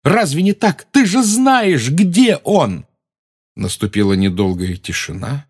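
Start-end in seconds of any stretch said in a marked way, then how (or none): 0.0-2.9 shouting. Acted. Harry keeps shouting.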